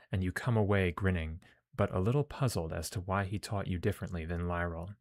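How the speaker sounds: measured read-aloud of game text; story narration. Acted.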